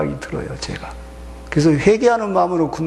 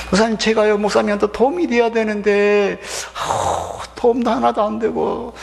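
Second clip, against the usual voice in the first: higher, plaintive churchgoer apologising; humble apology; 6 semitones higher than usual. Acted. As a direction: apologise to the pastor with a heavy sigh. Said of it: "이래야 옳은 성도요". (목사님께 높은 소리로 송구해하는 말투)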